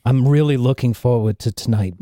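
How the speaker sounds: a hint of a sultry woman; low, flirty character voice; lightly voiced lover. NPC lover speaks.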